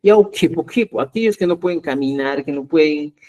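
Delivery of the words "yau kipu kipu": mocking taunt. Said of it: "a manera de burla, muchas veces dicen".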